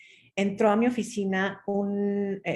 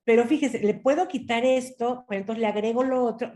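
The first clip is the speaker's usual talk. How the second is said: insistent salesman; 3 semitones higher, faster than usual. Retold or imitated.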